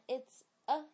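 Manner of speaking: "it's a" run together as "itsa"; linked reading. Shown as a demonstration. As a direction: link the ts of "it's" into "a". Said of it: "it's a要连读".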